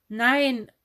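loud shocked no; horrified cry. A narrator's reading. Dennis shouting no, horrified at his aunt. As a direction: blurt it out in horror. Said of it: "rief Dennis entsetzt".

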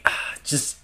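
loud, high exasperated yell at teammates; imitated angry yelling. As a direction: yell it like a star berating his teammates. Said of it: "he was just yelling at everybody else".

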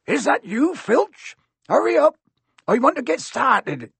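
high-pitched call from far off; impatient, high, carrying shout; distant shout. A narrator's reading. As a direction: holler across the grounds in Hagrid's rustic voice. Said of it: "they heard a distant shout".

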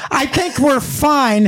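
slow, dopey imitation of a friend; mocking drawl. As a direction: drag it out like a stoned buddy. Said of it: "Brian's reaction was".

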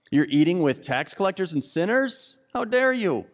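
high, scandalized cry of how dare you; indignant outrage. Acted. Preacher voicing Pharisees scolding Jesus, high indignant outrage. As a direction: play the offended Pharisee, voice climbing high.

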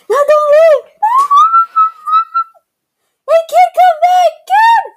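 high desperate calls; shouting after someone. Pretend. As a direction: call him back, pleading loudly. Calling after a leaving kid.

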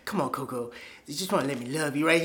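mock-tender plea; coaxing pimp. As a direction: imitate a man wheedling through a door. Pimp coaxing through door, retold.

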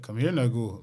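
put-on plain-pitched, bassier Nigerian accent. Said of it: "a real Nigerian be like".

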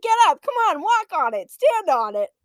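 high, loud mom commands; mock drill-sergeant mom; impatient mom. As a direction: order the kid up, imitating mom. Mom orders child to walk.

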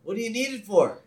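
high, loud cheery neighbor voice; Ned. Retold or imitated. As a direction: chirp it out with hammed-up friendliness. Ned questions Abe in retold scene.

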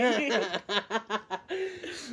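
high giggles breaking through; can't hold the laugh; stifled giggles. Real, not acted. Laughing fit mid-story.

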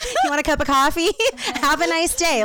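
mock breezy offer. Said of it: "Are you just like".

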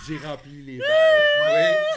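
very high, loud, slow squeal as a talking pitcher; hammed-up Beauty and the Beast pitcher. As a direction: shriek it like an enchanted jug. Playing the pitcher piece of furniture.

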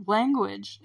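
"Language" said calmly and evenly; a calm, mild dad's warning on "Language"; calm reprimand. Retold or imitated.

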